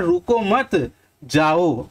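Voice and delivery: slow रुको मत joined, then जाओ set apart; pause after मत. Shown as a demonstration. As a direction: break at a comma between मत and जाओ. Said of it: "दूसरे में बोल रहे हैं". (रुको मत, फिर ठहर कर जाओ)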